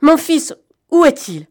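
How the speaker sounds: a frantic mother's high, loud cry; mother crying out for her son, high and loud; frantic exclaim. A narrator's reading. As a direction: burst out for her lost son. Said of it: "exclama-t-elle".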